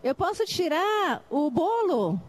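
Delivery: slow, clear teacher voice; teacher showing the game, slow and clear; slow demo. Shown as a demonstration. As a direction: lay each word out for the class. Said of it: "entendem o princípio da atividade?".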